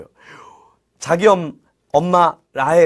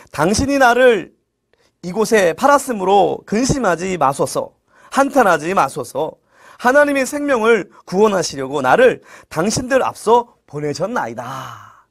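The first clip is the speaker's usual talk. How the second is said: measured, solemn verse recitation; scripture reading. Acted. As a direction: read the verse aloud, phrase by phrase. Reads the scripture verse aloud.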